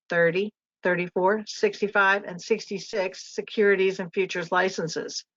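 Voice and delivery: winded after a long list; gasping between the words; out of breath. Real, not acted. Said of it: "Wow, I'm out of breath".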